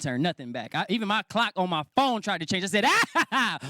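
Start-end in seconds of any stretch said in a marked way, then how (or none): 2.9-3.6 high, sudden "ah!"; mock alarmed yelp. Man catching his phone clock changing, mock alarmed yelp.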